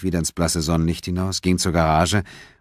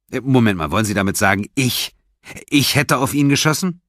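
alarmed disbelief; 7 semitones higher, 4 dB louder than usual. Acted. Suspect realizes he is accused.

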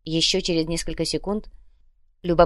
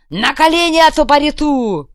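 even higher, loud threat; harsher repeated bark; 9 semitones higher, 9 dB louder than usual. Acted. Kuvalda repeating the kneel order, louder.

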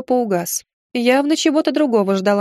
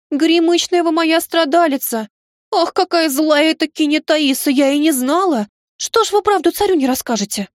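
indignant pity; 7 semitones higher than usual. Acted. Maid pities wronged lady.

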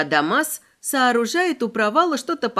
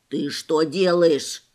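возмущённо; 4 semitones lower, slower than usual. A narrator's reading. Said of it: "возмутился кроль".

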